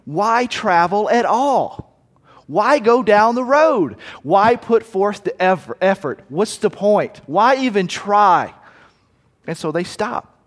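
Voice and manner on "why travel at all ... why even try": slow, drawn-out giving-up questions; slow, higher, defeated musing; weary shrug. Retold or imitated. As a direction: sound like there's no point in trying. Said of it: "to think".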